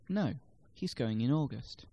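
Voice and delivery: a separate "No", then weight on "August"; correcting stress. Shown as a demonstration. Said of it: "can place the stress on different words".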